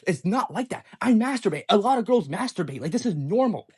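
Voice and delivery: mildly aggressive, insistent retelling of her excuse; semi-aggressive. Retold or imitated. Girlfriend insists to boyfriend it's normal, semi-aggressive. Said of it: "semi-aggressive voice".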